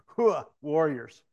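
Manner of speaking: loud, slow mock battle cry; imitated hua rallying cry. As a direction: call out to your warriors, drawn out. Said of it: "he does this hua thing".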